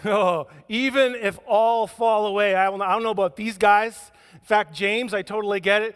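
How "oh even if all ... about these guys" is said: boastful Peter. Retold or imitated. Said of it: "Peter declared".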